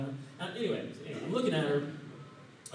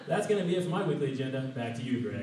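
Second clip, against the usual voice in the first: newscaster sign-off; 4 dB louder than usual. Pretend. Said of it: "that newscaster voice".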